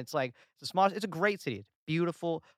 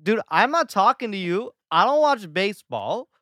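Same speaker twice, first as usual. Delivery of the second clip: louder, higher mock rant at a Boston fan; mock rant at the Boston stranger, louder and higher; exasperated retort; 4 semitones higher, 7 dB louder than usual. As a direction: tell the stranger off, building to a high shout. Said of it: "And I'm like".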